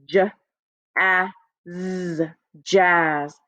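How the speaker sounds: J, a, z said one by one, then jazz; tapping out sounds. Shown as a demonstration. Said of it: "Here's a word".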